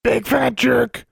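very high, drawn-out bird squawk; talking raven. A narrator's reading. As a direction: caw the insult slowly like a raven. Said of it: "when the raven returned to her, it said".

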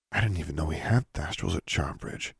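low, hushed voice; softly. A narrator's reading. Student finding the creature in the stall, softly. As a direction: speak very softly, almost to yourself. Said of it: "she said softly".

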